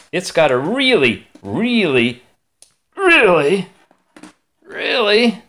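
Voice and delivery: mock-dramatic build of really; building emphasis. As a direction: stretch the reallies rising in pitch. Drawn-out repeated really.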